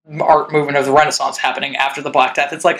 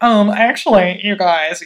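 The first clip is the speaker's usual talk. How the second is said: nerd voice; 2 semitones higher, slower than usual. Retold or imitated. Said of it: "in my extremely nerd voice".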